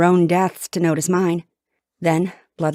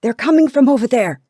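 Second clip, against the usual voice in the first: loud, raised urgent warning; soldier's shout; 6 semitones higher, 6 dB louder than usual. A narrator's reading. Soldier warning others where the arrows come from, shouting. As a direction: call out the danger to the troops. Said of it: "another soldier shouts".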